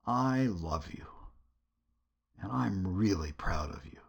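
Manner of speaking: softly spoken, unhurried fatherly tenderness; a touch of intimate, loving warmth; loving proud father. Acted. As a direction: gently voice a father's pride in his son. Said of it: "the spirit of a father looking at his son".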